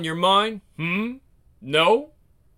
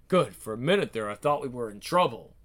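tough movie-guy voice; 5 semitones lower than usual. Acted. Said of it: "Why are you talking like that?".

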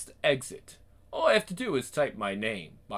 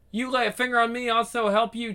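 gangster's moll; 10 semitones higher, faster than usual. Acted. Tough woman repeats threat.

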